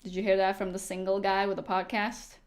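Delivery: mock-question with weight on single; stress on single. Real, not acted. Streamer teasing a chatter, single stressed. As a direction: lean on the word single, pointed and mocking. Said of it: "Emphasis on single".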